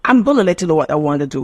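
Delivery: quick, run-together gonna and wanna; casual Cockney example. Shown as a demonstration. Teacher demonstrating informal British English, fast and casual. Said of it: "That's clock English".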